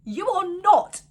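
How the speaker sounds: high, loud stretched-out ever; emphatic refusal. Real, not acted. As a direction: drag out never ever in outrage. Rejecting kids with him.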